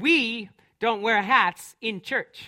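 mock stern scolding voice, loud and slow. Retelling a woman at church telling the speaker off about a hat; mock-stern voice. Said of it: "she said with a very stern voice".

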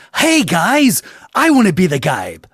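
high, swooping, sing-song, drawn-out anime-style voice. Recalling a Strong Bad Emails episode, quoting Homestar Runner in an anime voice. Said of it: "Homestar comes in talking like Japanese anime".

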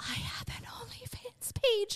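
very slow, breathy, hushed whisper. Retelling how an OnlyFans page was once admitted: imitating own past whisper. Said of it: "like, whispered it".

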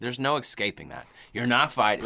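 ordinary talk

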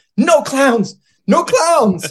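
shrill, very high, loud, drawn-out shrieking. Retelling banging on a door as a small child: imitating a child screaming. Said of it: "just screaming".

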